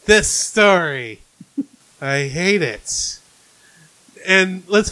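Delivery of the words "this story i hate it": slow, heavy sarcasm; retold weary dismay. Viewer seeing a hated story coming, slow dismay. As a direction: separate each phrase with a sinking groan of disapproval.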